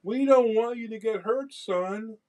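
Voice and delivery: high, slow, pleading parent voice; imitating loving parents. Parents telling their son they don't want him hurt, lovingly pleading. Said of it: "They're telling that they love their son".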